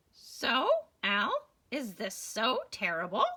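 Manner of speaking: lightly voiced persuading bird; large bird voice.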